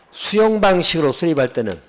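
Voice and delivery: "수용 방식으로" pitched high and stressed; emphatic contrast. Real, not acted. Teacher flipping the rule for students, emphatic. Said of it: "제가 이걸 강조한 이유가".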